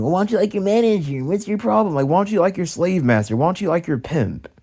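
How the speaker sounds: mildly mocking imitation of her annoyed questioning; retold irritated challenge; mad coworker, imitated. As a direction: pitch it up a little to mimic her nagging. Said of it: "then she gets mad at me".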